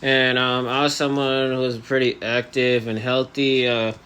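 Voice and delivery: talking through elastics in the mouth; jaw held shut. Real, not acted. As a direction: speak with the jaw barely moving. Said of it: "now I have, um, elastics in my, uh, mouth".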